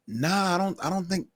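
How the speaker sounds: high, laughing "nah, brother" voice; laughing dismissal. Retold or imitated.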